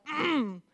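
soft "mm" of being moved; quiet, satisfied grunt of agreement; appreciative hum. Shown as a demonstration. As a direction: hum as if it hit home. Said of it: "that's hitting you like".

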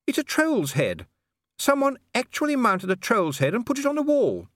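very high, horrified lady's voice; aghast, pitched right up; high-voiced outrage at a grisly trophy; appalled lady.

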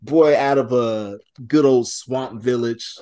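put-on swamp boy in a Cajun accent. Shown as a demonstration. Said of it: "going for, like, Cajun voice".

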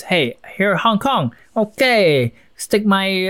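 a light put-on Chinese accent for a Brit planting a flag. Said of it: "I'm doing the Chinese accent for a British person".

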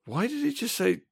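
soft, high puzzled questioning; mock bewilderment. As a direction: imitate baffled onlookers, hushed and high. Imagined puzzled wedding guests' reaction.

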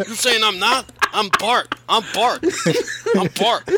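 high, loud mock Scottish shout; broad Scottish accent. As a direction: yell it in a mock Scottish brogue. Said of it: "a thick Scottish accent".

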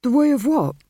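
high, loud baffled question; bewildered. A narrator's reading. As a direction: blurt it out in total confusion. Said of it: "totally bewildered".

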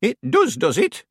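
high-pitched, doubting query; suspicious. A narrator's reading. Miss Treason doubts Billy's flattery, suspicious. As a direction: let the flattery land with suspicion. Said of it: "said Miss Treason suspiciously".

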